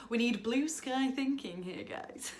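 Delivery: lightly put-on corporate boss; mock manager voice. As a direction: parody a keen team leader. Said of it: "You've gotta say things like".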